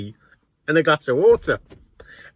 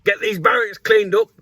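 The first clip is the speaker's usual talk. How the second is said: higher, louder barked order from the sergeant; sergeant's order; 9 semitones higher, 4 dB louder than usual. Retold or imitated. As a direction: call it out like a sergeant to the barracks. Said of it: "and he said".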